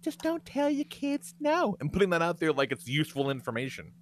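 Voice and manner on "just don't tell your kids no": high, slow, mocking prissy voice; mocking the influencer. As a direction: parrot her advice with contempt. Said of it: "for this broad to be like".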